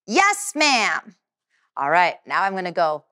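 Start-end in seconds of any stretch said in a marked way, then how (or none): 0.0-1.1 high, loud yes ma'am; loud response. Shown as a demonstration. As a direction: answer out crisply like a student. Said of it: "you're gonna say".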